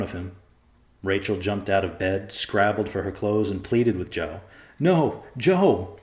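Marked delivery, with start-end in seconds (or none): 4.8-6.0 high desperate plea; pleading in panic; begging. A narrator's reading. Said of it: "she begged".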